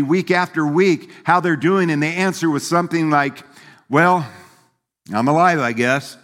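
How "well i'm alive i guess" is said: a lightly voiced gloomy sigh of a reply; mopey Eeyore-like churchgoer. Preacher mimics a defeated churchgoer, lightly mopey. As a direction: mimic a defeated believer, droopy and resigned. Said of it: "And they start sounding like that".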